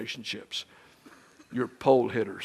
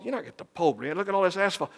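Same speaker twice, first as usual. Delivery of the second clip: much higher, cheery coaxing; upbeat dad; 6 semitones higher, faster than usual. Retold or imitated. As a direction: pump her up about the asphalt. Father reassures daughter.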